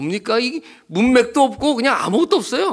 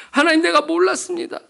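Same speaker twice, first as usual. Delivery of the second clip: tearful cry to God; 9 semitones higher than usual. Retold or imitated. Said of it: "팡팡 울면서 자기가 그랬대요".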